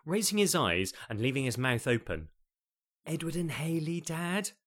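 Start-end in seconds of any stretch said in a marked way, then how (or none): 3.0-4.5 sweetly patient prompt with an edge; gentle with menace. Acted. Daughter prompting her dazed father, gentle but menacing. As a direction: coax Dad along, a hint of threat underneath. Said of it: "in a gentle way ... laced with menace, impatience".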